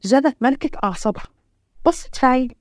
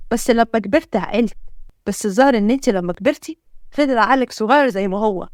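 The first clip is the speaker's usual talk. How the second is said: lightly voiced man, lower and indignant; a hint of a stern male hero, pitched down; 3 semitones lower than usual. Hero scolds the girl for dancing in rain, indignant. Hero answers back in quarrel.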